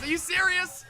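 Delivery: breathless after excited yelling; out of breath from hyping up the chat. Real, not acted. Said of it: "I'm already out of breath right now".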